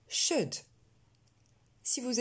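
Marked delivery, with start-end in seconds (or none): 0.1-0.5 "Should" with a short eu-like vowel, silent L; pronunciation model. Shown as a demonstration. Teacher drilling words never said as ould, pronunciation model. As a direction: say "Should" with no L and no long ou. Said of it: "n'allait jamais se prononcer ould".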